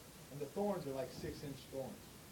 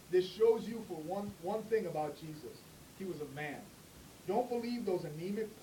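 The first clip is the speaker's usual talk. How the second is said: emphatic preaching; 4 semitones higher, 5 dB louder than usual. Real, not acted. Preaching emphasis, louder and slower.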